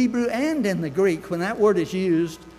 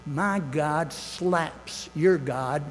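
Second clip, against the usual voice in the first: coarse Luther quote; 2 semitones lower, 3 dB quieter, much slower than usual. Retold or imitated. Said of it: "he was a pretty coarse guy".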